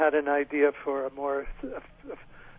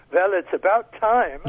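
put-on slow, emphatic Austrian accent; 4 semitones higher, 6 dB louder than usual. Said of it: "her first words in her Austrian accent were".

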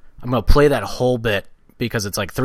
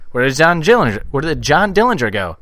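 put-on higher, old-timey cop voice; 1950s police officer; 5 semitones higher, 4 dB louder than usual. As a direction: grill them like a fifties cop. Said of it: "nineteen fifties police officer".

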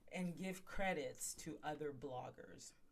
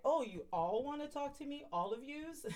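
imitating Kim; 9 semitones higher than usual. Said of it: "Kim's like".

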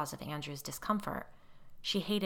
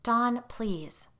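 pleading; 6 semitones higher, 6 dB louder than usual. A narrator's reading. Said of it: "Molly pleaded".

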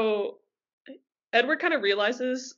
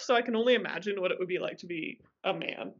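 whisper; 4 semitones lower, 5 dB quieter, faster than usual. Real, not acted. Joking aside, self-deprecating.

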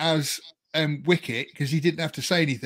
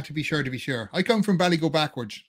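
a quick, light stab at an Irish accent. Shown as a demonstration. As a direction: toss off a hammed-up stage-Irish line. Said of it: "Do an Irish accent for us".

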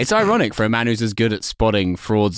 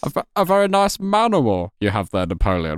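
silky menace, pitched up; smiling threat; 4 semitones higher than usual. Pretend. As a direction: purr a veiled threat. Mock villain threat to Napoleon.

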